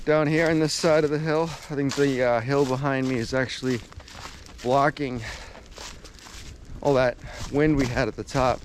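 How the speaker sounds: sore mouth after tooth pulled; words slurred by a sore mouth; talking funny after tooth pulled. Real, not acted. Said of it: "excuse me if I'm talking funny still".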